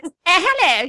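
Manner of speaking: high, plummy upper-class "hello"; mock posh English lady greeting. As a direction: put on a grand society lady. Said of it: "She says".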